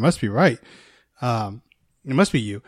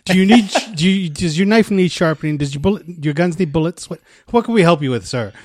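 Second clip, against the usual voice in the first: higher, louder fawning offer, fast at end; eager servant; 5 semitones higher, 4 dB louder than usual. Retold or imitated. Hotel staff fawning over the suited man, louder. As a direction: gush over the guest like a servant.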